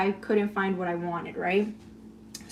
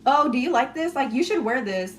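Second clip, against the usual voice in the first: mock teasing; 3 semitones higher than usual. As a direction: imitate a teasing suggestion. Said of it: "tease you and make fun of you".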